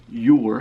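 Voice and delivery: You're said loud and set apart; stress on You're. Acted. Pointing out a misspelling, You're loudly stressed. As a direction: punch You're as a lone word. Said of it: "point out that it's misspelled".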